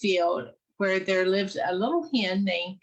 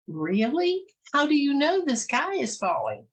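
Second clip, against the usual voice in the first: higher, skeptical question; doubtful goose; 7 semitones higher than usual. Acted. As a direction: push back in disbelief.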